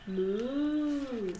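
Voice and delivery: long drawn-out moo; playful imitation of a cow. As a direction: moo gently like a cow, for a child.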